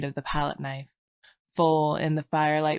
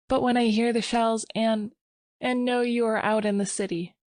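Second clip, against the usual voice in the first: put-on lightly raised, gentle young wife voice; young woman; 7 semitones higher than usual. Sylvia's voice.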